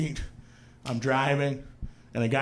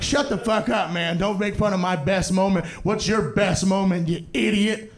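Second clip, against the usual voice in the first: hurt, slightly pitched-up retort; mock indignant; 2 semitones higher than usual. Brother defends his best moment, mock indignant. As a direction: imitate a brother snapping back, offended.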